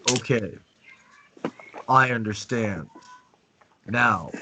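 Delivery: steady and slow, in command; calm, unhurried authority; slow dominant demo. Shown as a demonstration. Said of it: "speak slowly and dominant".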